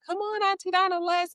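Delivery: put-on high, coaxing child voice; be the kids begging Auntie Donna to play; kids pleading. Kids coaxing their aunt to come play, in a high pleading voice.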